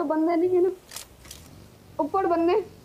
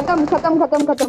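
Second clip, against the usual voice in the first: excited loud callout; loud shout; 8 dB louder than usual. Real, not acted. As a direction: call it out hard. Shouting enemy is finished.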